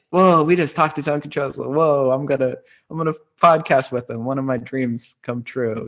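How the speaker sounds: high as a kite with joy; excited disbelief; thrilled. Retold or imitated. Leaving thrilled after meeting.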